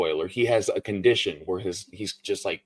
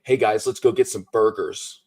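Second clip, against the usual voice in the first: put-on lightly caricatured American accent; a hint of exaggerated American; mock American accent. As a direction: do a gamer's idea of an American accent. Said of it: "that's what it sounds like".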